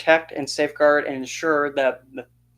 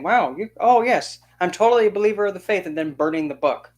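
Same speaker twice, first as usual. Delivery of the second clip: mock fake believer; 5 semitones higher, 4 dB louder than usual. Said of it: "That's like saying".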